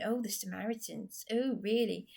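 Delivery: a lightly mocking "Oh, really?"; mocking men. Vlogger repeats the men's jibes to Darren, lightly mocking. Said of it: "making comments about what I was saying".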